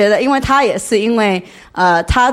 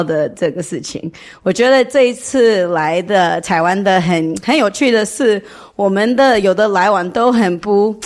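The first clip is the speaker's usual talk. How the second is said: non-native Mandarin, halting and careful; foreigner speaking mandarin. Real, not acted. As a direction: speak Mandarin as a learner, searching for words. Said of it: "我中文不太好".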